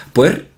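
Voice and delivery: "Puer" as one syllable with a diphthong; una sola sílaba. Shown as a demonstration. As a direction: say "Puer" in a single beat. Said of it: "Se pronuncia en dos sílabas". ("Puer" como diptongo, de un golpe)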